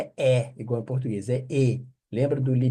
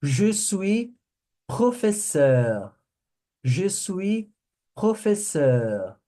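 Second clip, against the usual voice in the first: slow drill; 4 semitones higher, slower than usual. Shown as a demonstration. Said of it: "A próxima".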